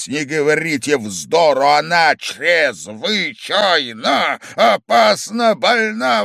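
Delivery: loud, slow, angry shout. A narrator's reading. Angry host shouts down the drunk guest. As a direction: drag it out in fury.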